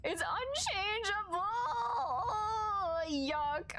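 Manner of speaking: high whimpering fake sob; half-laughing comic wail; mock crying. Real, not acted. Streamer wailing at the story's bad turn, mock sobbing.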